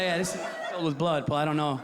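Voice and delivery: low, deadpan doctor; understated low doctor mumble. Retold or imitated. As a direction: drop low and flat like a bored doctor. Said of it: "And he's like".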